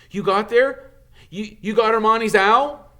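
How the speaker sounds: put-on high, loud boyish disbelief; astonished Harry. Harry asks Dumbledore about the owl, high and amazed. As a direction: ask it in startled wonder.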